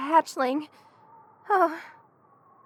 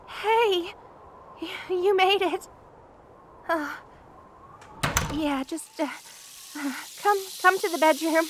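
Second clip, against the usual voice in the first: halting, stammering greeting through shivers; chilled and stuttering; shivering with cold; 2 semitones higher than usual. Acted. Freezing friend greets visitor at door.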